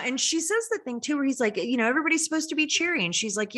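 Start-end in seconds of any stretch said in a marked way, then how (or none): 1.9-3.0 mock chirpy Billy. Mocking Billy's chirpy line.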